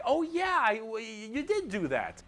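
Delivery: dim orcs. Retold or imitated. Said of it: "all the other orcs are like".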